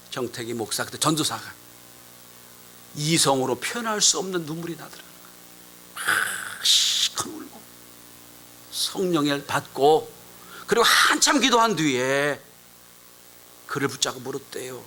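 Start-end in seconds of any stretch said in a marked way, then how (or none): none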